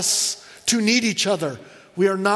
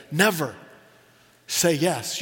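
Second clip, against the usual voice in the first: "never" low and deliberate, then a pause; stress on NEVER; 4 semitones lower, slower than usual. Retold or imitated. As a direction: land firmly on "never" without being mean. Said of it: "she put the emphasis upon the word never".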